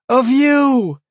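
high breathy little demon; adoring squeaky imp; whiny demon voice. A narrator's reading. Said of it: "breathy, whiny voice".

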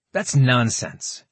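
sharply indignant, slow and firm. Acted. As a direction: scoff at it, offended. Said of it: "Carver declared indignantly".

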